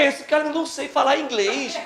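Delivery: ordinary talk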